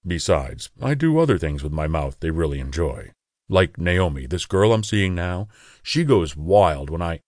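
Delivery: lightly voiced sly brag about his mouth. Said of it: "He lowered his voice and suggestively said".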